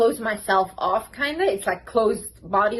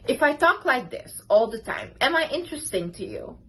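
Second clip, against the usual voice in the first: dull flat delivery. Shown as a demonstration. Showing viewers how dull talk sounds, without energy. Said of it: "it's kinda creepy".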